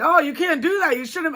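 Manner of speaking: high put-on scolding voice; mock church people. Church people to shaken member, mock high-pitched warning. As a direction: imitate them warning, well up in pitch.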